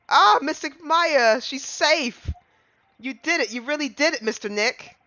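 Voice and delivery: put-on high, eager little girl's voice; excited young girl. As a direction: squeal with a child's relief at the news.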